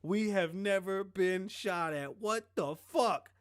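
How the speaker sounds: high, loud, slow mock panic; hammed-up terror at being shot at; panicked. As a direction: play the freaked-out passenger under fire. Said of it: "The boy was like".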